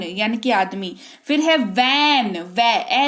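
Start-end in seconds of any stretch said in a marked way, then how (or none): 2.4-3.1 वै cut short to show the vowel; vowel sound demo. Shown as a demonstration. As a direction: isolate the vowel in वैन. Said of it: "ए सुनाई दे रहा है". (वैन की ध्वनि अलग करके)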